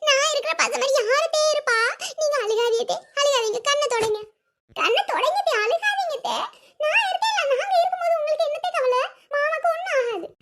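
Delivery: high-pitched, cooing fake concern; hammed-up tearful fussing, pitched high; put-on sympathy. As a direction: overact comforting a weeping mother-in-law. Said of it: "நம்ம இன்னும் ரெண்டு நாலு வார்த்தை சொல்லி நடிப்போம்".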